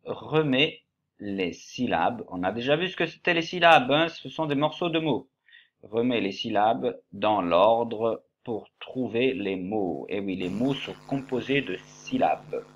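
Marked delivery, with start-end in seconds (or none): 0.0-2.2 Remets les syllabes read slowly, like an instruction. Shown as a demonstration. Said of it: "la lecture de la consigne". 5.8-10.1 Remets les syllabes read slowly, like an instruction. Shown as a demonstration. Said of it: "la lecture de la consigne".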